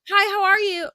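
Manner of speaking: forced bright hello; cheerful greeting. Retold or imitated. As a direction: sound sunny while scowling. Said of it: "literally scowling".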